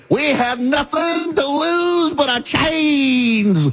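high, slow, soaring mock preacher voice; mocking her church speech. Host mocks the candidate's church speech, slow soaring preacher imitation. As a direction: stretch every word out like a sermon from the pulpit. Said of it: "She did that in a church".

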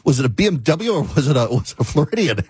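lightly done Australian guy voice, laughing at the end; a hint of an Australian accent; mock Aussie accent. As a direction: imitate the Aussie AI with a chuckle. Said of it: "This, this Aussie guy is like".

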